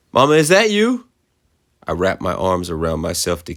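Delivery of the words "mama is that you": put-on high, cracking scared girl's voice. A narrator's reading. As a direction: ask hoping and terrified. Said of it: "My voice cracked".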